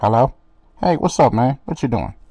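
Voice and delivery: narrow-band phone-filtered voice. Showing how a narrowed frequency range sounds: sounding like a phone. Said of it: "that's the reason why I sound like a phone".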